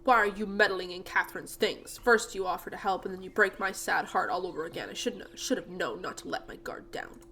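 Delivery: put-on gruff old man, hurt. Jasper catches someone in his daughter's things, gruff.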